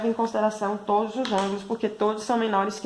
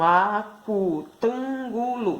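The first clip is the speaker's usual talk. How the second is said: slow whole word; much slower than usual. Shown as a demonstration. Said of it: "Então, cinco sílabas".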